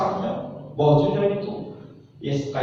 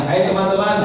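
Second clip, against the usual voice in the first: rallying call; 6 semitones higher, 7 dB louder, faster than usual. Shown as a demonstration. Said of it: "siap praktek?".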